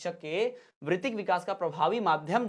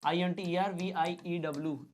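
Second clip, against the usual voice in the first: slow, letter by letter; measured dictation of each letter; spelling out. Shown as a demonstration. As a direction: spell it out while writing. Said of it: "यहाँ spelling लिखता हूँ".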